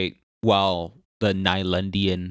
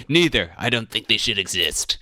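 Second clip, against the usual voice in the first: playful dismissal; 2 semitones higher, 4 dB louder than usual. Real, not acted. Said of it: "He's gonna say neither".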